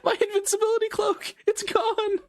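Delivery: shrieking high mock despair; megalomaniac rant. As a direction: wail it like a fallen villain. Mourning lost cloak.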